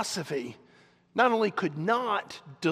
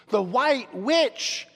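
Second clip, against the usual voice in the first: loud, high, drawn-out outcry; astonished cry; 7 semitones higher, 6 dB louder, much slower than usual. Acted. Three listeners react to the dangerous power, astonished cry. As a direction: cry the name out in alarm. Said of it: "cried the three voices all at once".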